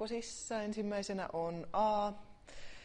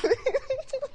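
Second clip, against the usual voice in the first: a squeal of laughter, pitched way up; very high delighted giggle; 7 dB louder than usual. Real, not acted. Delight at warm light. (kiljahtava kikatus)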